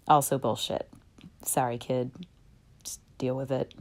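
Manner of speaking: low, quiet, matter-of-fact aside; soft, low, deadpan dismissal; blunt letdown. Acted. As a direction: drop the voice and break it bluntly to a kid. Blunt bad news to a child.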